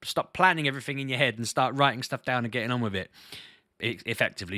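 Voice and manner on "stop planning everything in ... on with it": firm, insistent retold advice; mildly bossy life coach; mock-aggressive coaching. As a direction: give the coach's advice more forcefully than it was said. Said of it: "she didn't say it so aggressively".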